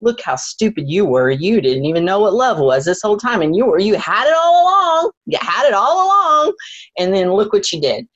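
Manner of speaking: a hint of a taunting ego, rising high; lightly voiced sneering ego; mocking inner voice. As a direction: scold yourself like the ego. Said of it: "the ego tried to reassert itself".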